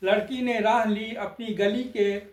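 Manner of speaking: measured stage-poet delivery; lilting satirical verse recital; poem recitation. Acted. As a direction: recite verse line by line with pauses.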